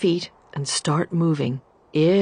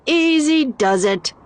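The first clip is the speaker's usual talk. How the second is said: higher, gently cautioning; 8 semitones higher, 3 dB louder than usual. A narrator's reading. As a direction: warn the wind calmly. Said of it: "she cautioned the wind".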